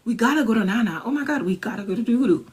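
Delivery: high, breathless oh-my-gosh gushing; excited. Retold or imitated. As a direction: rattle off plans in rising excitement. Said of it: "I'm like".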